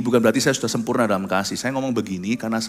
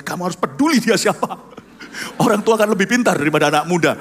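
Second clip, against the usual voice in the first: raised, higher voice, a bit fast; stern rebuke; 7 semitones higher, 5 dB louder, faster than usual. Retold or imitated. Father rebuking his son who defied a soldier, raised stern rebuke. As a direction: lay down the law to your son.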